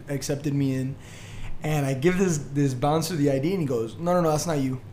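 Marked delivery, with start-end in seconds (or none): 4.0-4.8 casual, unbothered brush-off; imitating a bored bouncer's flat no; nonchalant. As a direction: wave it off like it's nothing. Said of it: "Like, nonchalant".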